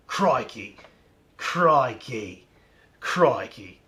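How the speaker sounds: low Australian warm-up; Australian accent. Shown as a demonstration. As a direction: practise a broad Australian accent, drawing the word out. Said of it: "Gotta warm up with that".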